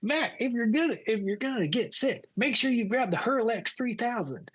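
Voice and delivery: high imitation of a pilot giving instructions; pilot impression. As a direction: put on the pilot's high-pitched way of talking. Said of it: "that's how he talked".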